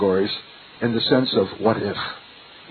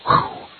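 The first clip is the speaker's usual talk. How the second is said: whew. Retold or imitated. Imitates words hitting his gut.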